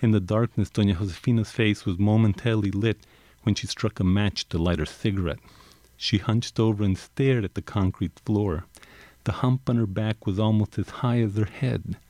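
calm storytelling read aloud; story narration. A narrator's reading. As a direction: read it like a novel. Author reads story narration.

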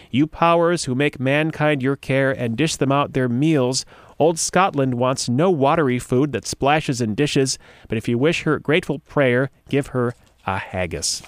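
slow, grand recital of verse; slow heroic poem reading; dramatic poem reading. Acted. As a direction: declaim it like a battle ode.

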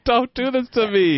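high-pitched mock plea; mock pleading. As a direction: beg the dog in hammed-up dismay. Pleading with dog, retold.

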